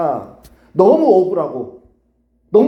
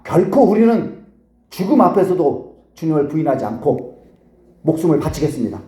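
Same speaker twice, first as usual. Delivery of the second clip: imitated solemn pledge, forceful opening; grand vow. Disciples pledging their lives to the Lord, grand vow. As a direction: start strong and swear it like a disciple. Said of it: "어마어마한 그런 고백들을 하고 있죠".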